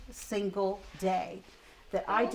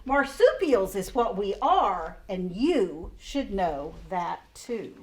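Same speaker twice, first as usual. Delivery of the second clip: lively storybook rhyme reading; reading aloud to children. Acted. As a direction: read the koala's complaint like a picture book. Reading a rhyming picture book aloud.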